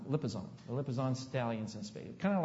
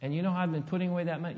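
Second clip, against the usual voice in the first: excited daughter; 3 semitones higher, much faster than usual. Retold or imitated. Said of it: "all excited".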